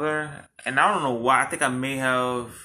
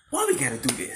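mock pleading, pitched way up, laughing; pleading high voice; 4 dB quieter, faster than usual. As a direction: beg him high and breathless through laughter. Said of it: "I'm like".

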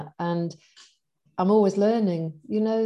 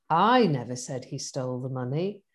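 NEVER said lower and held; stress on NEVER; 6 semitones lower than usual. Shown as a demonstration. Coaching demo of one sentence, stress on never. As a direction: lean on the word never. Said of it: "them teaching us this on the coaching course".

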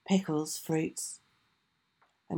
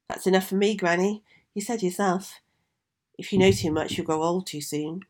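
put-on polite young girl; 3 semitones higher than usual. Vasilisa declines wisely.

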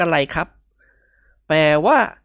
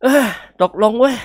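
heavy resigned agreement; 6 semitones higher, 4 dB louder than usual. Acted. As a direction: give in with a heavy sigh, dragging every word. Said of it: "ถอนหายใจหนักๆ นิ่งอึ้งไปสักครู่".

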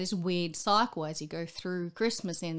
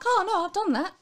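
bright mock-cheery reply; 13 semitones higher, 9 dB louder than usual. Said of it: "And I'm like".

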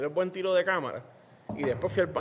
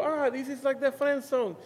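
mock dramatic gag line; 8 semitones higher, slower than usual. Gag line delivered on camera.

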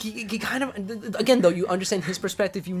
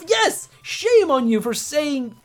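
high, loud, slow rebuke; outraged exclamation, voice jumping up; indignant scolding; 9 semitones higher, 5 dB louder, much slower than usual. Real, not acted. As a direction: scold them with drawn-out emphasis. Indignant rant at the characters.

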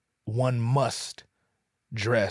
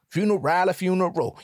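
echoing meme; 7 semitones higher, 4 dB louder than usual. Retold or imitated. Repeating the meme line.

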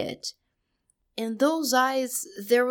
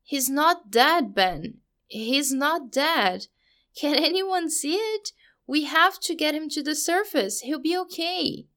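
desperate denial; 6 semitones higher than usual. Acted. Richie refusing Eddie's death.

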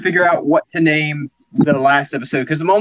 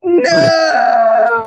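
mock crying shout; 4 semitones higher, 3 dB louder than usual. Employee's reports destroyed.

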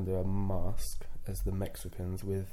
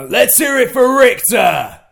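booming London announcer shout, slow and much higher; fake deep London voice; 19 dB louder, much slower than usual. Shown as a demonstration. Asked by his friend to do his old London ring voice. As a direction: bellow it like a London wrestling promo. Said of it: "a more fake London deep voice".

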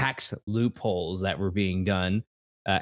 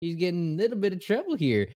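titillated; 10 semitones higher, faster than usual. Real, not acted. Repeats the line, higher and faster.

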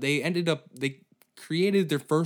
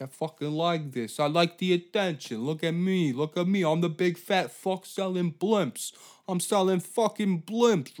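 attention-hungry braggart; 7 semitones higher than usual. Acted. Lou loving the news attention, gleefully bragging. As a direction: revel in being on the news. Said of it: "And Lou's like".

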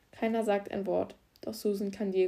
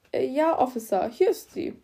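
much higher, louder, flustered little man; nervous garage boss; 5 semitones higher, 6 dB louder than usual. Acted. Garage boss to the officer, high and flustered. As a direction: stammer out an eager answer.

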